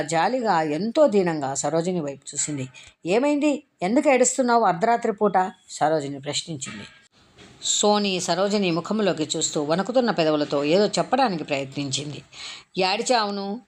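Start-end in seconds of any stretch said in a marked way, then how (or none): 3.1-5.3 irritated questioning. Acted. Irritated warden questioning child. 12.8-13.6 sobbing plea. Acted. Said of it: "వెక్కి వెక్కి ఏడుస్తూ అంది".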